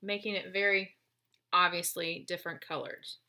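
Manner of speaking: talking while chewing an apple; eating an apple. Real, not acted. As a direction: mouth full of apple. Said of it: "If you hear me crunching in the background, I'm eating my apple".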